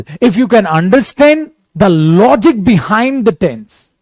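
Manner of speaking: very slow, measured English delivery; slow English explanation. Acted. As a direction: spell it out slowly for students. (धीमी, ठहरी हुई अंग्रेज़ी में समझाना)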